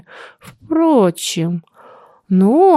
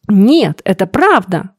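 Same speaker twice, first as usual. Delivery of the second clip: heated protest; 3 dB louder, slower than usual. Acted. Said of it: "горячо возразила".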